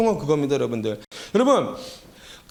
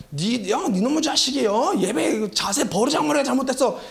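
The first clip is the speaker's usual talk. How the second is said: mock fatherly scolding, pitched a bit higher; 아버지의 호통; 3 semitones higher than usual. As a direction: imitate a stern father's reprimand. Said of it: "호통치신 것 같은 거예요". (호통치는 아버지 흉내)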